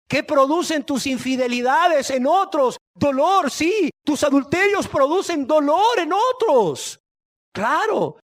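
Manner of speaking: high, loud preaching cry; real fiery pulpit shout, pitched high; impassioned rebuke. Real, not acted. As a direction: hurl the accusations at the congregation at full force. Preacher confronts congregation with sins.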